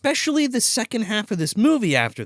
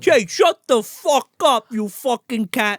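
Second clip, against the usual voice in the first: slow, higher, louder hammed-up yell; mock yell at cat; 5 semitones higher, 4 dB louder, slower than usual. Italian guy yelling at the cat, slow mock yell. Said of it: "he keeps yelling at the fucking cat".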